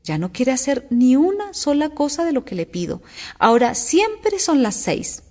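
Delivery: understated storybook gloom; gloomy. A narrator's reading. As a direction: lament it, slowing right down at the end. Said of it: "continuó el sombrerero con tono lúgubre".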